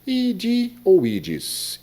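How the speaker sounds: "ide" and "ides" high, very slow; ide versus ides. Retold or imitated. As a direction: contrast "ide" with "ides", clear final s. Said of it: "o padre disse".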